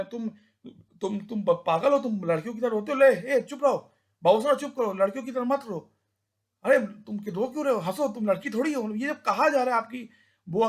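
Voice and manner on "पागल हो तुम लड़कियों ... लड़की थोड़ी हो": scolding elder. Retold or imitated. Elder scolding crying boy.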